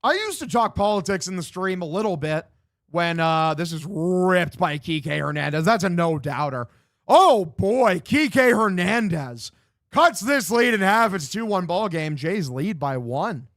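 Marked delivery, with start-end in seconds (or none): 3.5-13.5 slow, drawn-out home run call; excited play-by-play. Real, not acted. Streamer calling a home run for viewers, excited announcer voice. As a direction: stretch the names and ride the big moment.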